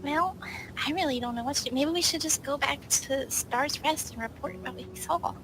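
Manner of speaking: ordinary talk, nothing marked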